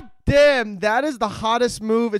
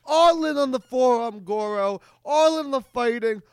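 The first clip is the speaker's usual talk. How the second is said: gushing. Real, not acted. Host listing every favourite thing, excited and emphatic. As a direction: pile on the enthusiasm.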